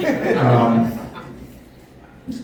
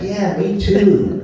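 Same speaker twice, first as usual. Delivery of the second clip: slow, higher, laughing "me too"; laughing agreement; 5 semitones higher, 4 dB louder, much slower than usual. Retold or imitated. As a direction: drag it out through a laugh.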